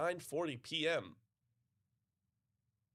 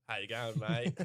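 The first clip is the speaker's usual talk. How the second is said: lightly mimicked Australian accent, the way a yoga teacher says it; perfect Aussie accent; 3 semitones lower than usual. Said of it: "say in the perfect Aussie accent".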